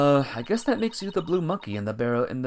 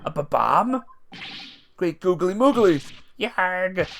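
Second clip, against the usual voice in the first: shocked exclamation; 4 semitones higher, 3 dB louder, slower than usual. Acted. Judge shocked by bomb.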